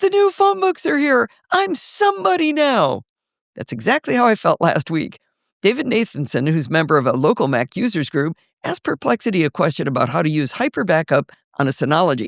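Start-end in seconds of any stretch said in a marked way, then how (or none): 0.0-3.0 put-on shrill, very high, overjoyed excited yelling. Retelling a movie scene line by line: imitating excited yelling. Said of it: "he starts yelling".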